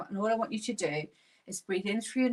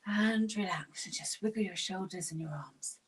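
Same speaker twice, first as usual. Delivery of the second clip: whispered relax; 2 semitones lower, 5 dB quieter than usual. Shown as a demonstration. Gentle relax after breathing.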